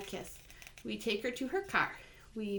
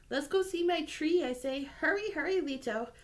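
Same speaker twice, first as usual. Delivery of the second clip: put-on excited child; 6 semitones higher, 3 dB louder than usual. Child eager to show his tree.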